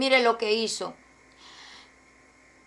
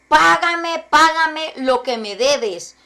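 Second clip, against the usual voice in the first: mock demand; 2 semitones higher, slower than usual. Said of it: "le ahogaba diciendo".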